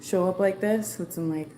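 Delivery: loud, high and breathless; energetic after a run, voice up; excited. Real, not acted. Returns after running, excited.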